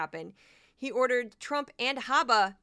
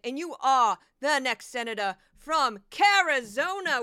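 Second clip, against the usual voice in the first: Kari Lake parody; 5 dB louder than usual. Retold or imitated. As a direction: ham up a brash TV-anchor politician, punching every line. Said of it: "I'll do a brief impression".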